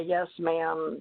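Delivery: ordinary talk, nothing marked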